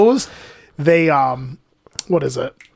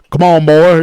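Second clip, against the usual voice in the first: Jesus; 7 dB louder than usual. Retold or imitated. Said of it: "And Jesus goes".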